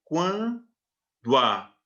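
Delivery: "quando a" drawn out slowly, o and a said in one breath; "quando a" slow elision into one impulse; vowels fused. Shown as a demonstration. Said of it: "Você fala o do e o a de uma vez só".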